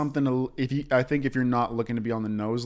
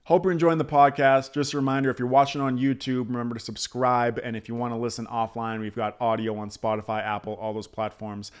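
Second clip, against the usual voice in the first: host reading the subscribe reminder; podcast plug; 2 semitones lower than usual. Acted. Host reminding listeners to subscribe in announcer tone. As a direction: run through the plug like an ad read.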